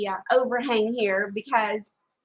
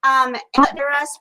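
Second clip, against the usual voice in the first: raised voice against the wind; shouting over wind; 7 dB louder than usual. Real, not acted. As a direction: call out over the gusts. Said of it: "We're gonna try to talk loud so that you can hear us over the wind".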